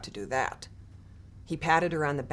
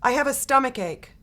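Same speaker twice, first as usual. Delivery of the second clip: higher, louder pleading complaint; whiny fake sick girl; 7 semitones higher, 5 dB louder than usual. A narrator's reading. Girl pretending illness to her mother, whiny. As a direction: play the kid faking a tummy ache. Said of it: "she'd say to her mother".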